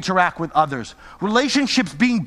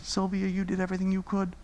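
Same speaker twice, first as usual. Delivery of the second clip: a touch softer, gentle reassurance; tender Jesus voice; 5 dB quieter, faster than usual. Acted. Jesus reassuring Sylvia, gentle and soft. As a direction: speak it like comforting a friend. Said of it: "he will say things like this".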